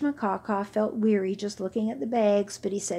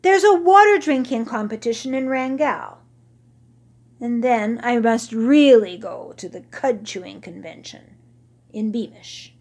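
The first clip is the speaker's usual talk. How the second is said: put-on grumpy old camel; 2 semitones higher, 7 dB louder than usual. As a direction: whine about your aches like a vain old beast. Old camel makes excuses.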